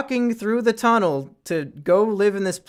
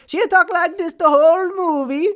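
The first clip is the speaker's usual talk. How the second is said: much higher, exaggerated put-on Vietnamese accent; mock Vietnamese accent; 12 semitones higher, 4 dB louder than usual. Mocking how the girlfriend character talks, exaggerated Vietnamese accent. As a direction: mimic the actress's heavy Vietnamese accent, overdone on purpose. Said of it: "Uh, maybe not quite like that".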